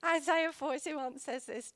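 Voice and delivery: slow, choked reading voice; steady yourself while still crying; still tearful. Real, not acted. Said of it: "I'm sorry for getting emotional".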